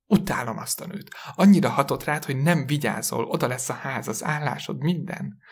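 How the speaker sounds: a touch of agitated reproach; mildly indignant. Acted. Wife blames the woman for risking house and job, mildly indignant. Wife rails at husband, acted quarrel.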